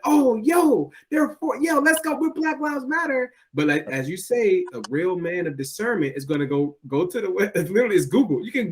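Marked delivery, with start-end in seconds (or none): 0.1-3.3 hyped-up mock cheer. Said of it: "and it was like".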